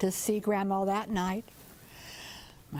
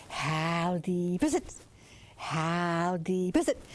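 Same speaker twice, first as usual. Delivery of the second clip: lower, slow croaking question; frog talk call; 4 semitones lower, slower than usual. Acted. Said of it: "could talk frog talk".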